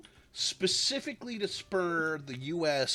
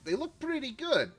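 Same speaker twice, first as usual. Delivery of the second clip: halting, badly faked French accent; hesitant mock-French accent; terrible French accent; 6 semitones higher than usual. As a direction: imitate a French leader in a bad French accent. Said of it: "I did a terrible French accent there".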